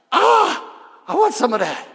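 loud greedy gasp of wanting; sudden loud craving. Retold or imitated. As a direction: reach for it like a hungry kid. Craving voice of temptation.

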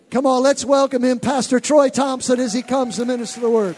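rousing introduction. Real, not acted. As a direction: call the congregation to welcome the speaker. Host welcomes guest to pulpit.

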